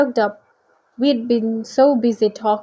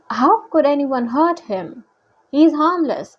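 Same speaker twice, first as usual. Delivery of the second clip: pitched-up, pleading defence; a touch of dismay; mild protest; 4 semitones higher than usual. Acted. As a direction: protest gently on a friend's behalf. Narrator acts Percy defending Bessie.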